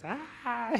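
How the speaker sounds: a short, high retold wail; a father reliving his cry over his baby. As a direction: break into a high cry again.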